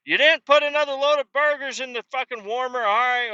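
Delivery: high, sharp manager scolding; bossy manager. Retold or imitated. Manager scolding a McDonald's worker about the burgers. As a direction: bark at the crew like a shift manager.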